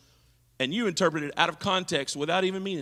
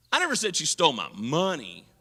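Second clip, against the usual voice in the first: money leaned on, falling at the end; stress on my or money; 2 semitones lower than usual. Shown as a demonstration. Preacher finishes the demo, stressing the end. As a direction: hit the last words. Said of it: "which word I put the voice inflection on".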